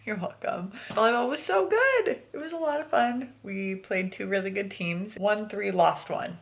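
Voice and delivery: talking around a retainer; slightly lisped retainer speech; wearing a retainer. Real, not acted. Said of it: "I have my retainers in too".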